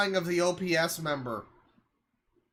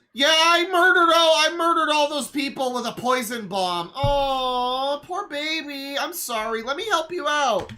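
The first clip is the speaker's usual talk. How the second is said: mocking smug voice; 4 semitones higher than usual. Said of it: "And the message is".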